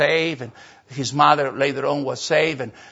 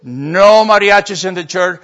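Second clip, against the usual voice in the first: firm command; 6 dB louder, slower than usual. Retold or imitated. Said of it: "Papa said".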